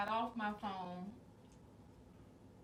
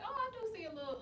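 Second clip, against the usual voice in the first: mild retold surprise; 11 semitones higher than usual. Retells own reaction on looking outside.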